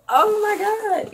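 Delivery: high, slow, overjoyed squeal; squealed oh my God. Real, not acted. Vlogger thrilled by the box, squealing. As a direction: gasp it out in delight.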